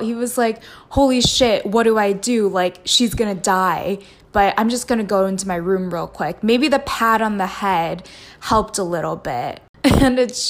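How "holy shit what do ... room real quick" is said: mock panicked. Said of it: "freaked out".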